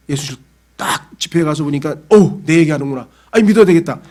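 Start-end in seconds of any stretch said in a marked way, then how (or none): 2.1-4.0 struck realization. Retold or imitated. Gang member moved at revival.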